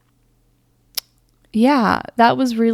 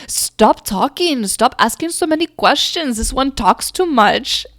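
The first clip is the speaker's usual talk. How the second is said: put-on a touch louder, higher old woman's rebuke; old woman scolding; 5 semitones higher, 5 dB louder than usual. Old woman through her tells the mother to hush, lightly voiced scolding. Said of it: "the old woman through me was like".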